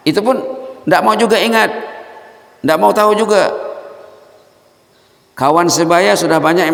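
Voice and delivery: high, loud rebuking questions; impassioned preaching. Acted. Preacher rebuking the congregation, loud and high. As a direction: scold the congregation from the pulpit.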